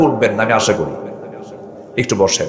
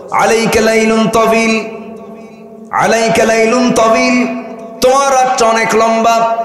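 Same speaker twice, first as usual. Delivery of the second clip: Satan's whispered lullaby; 9 semitones higher than usual. Retold or imitated. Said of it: "এমন করে ওয়াজ করে".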